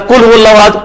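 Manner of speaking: قل said with a light front Urdu kaf, like kul; Urdu-style kaf. Shown as a demonstration. Teacher showing students the common wrong reading. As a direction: say قل hو اللہ احد with the plain Urdu kaf. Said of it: "اگر یہ پڑھیں جو عوام پڑھ رہی ہے تو اردو والا".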